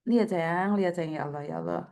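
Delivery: low, soft sympathy; murmured concern, dropping deep; tender dismay. Real, not acted. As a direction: soothe someone hurt, voice sinking low. Dismayed sympathy for injured caller.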